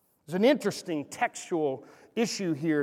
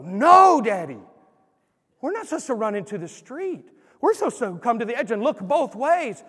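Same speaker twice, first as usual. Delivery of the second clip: put-on child voice; 3 semitones higher, 5 dB louder than usual. Little son corrects his dad.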